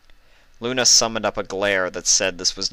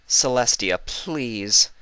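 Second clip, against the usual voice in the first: pleading Luna; 4 semitones higher, much slower than usual. Acted.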